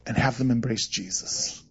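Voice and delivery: "have them embrace Jesus" dropped soft and low; quiet pointer. Shown as a demonstration. Pastor advising fellow pastors, softly and low. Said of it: "Let me give you a pointer about pastoring".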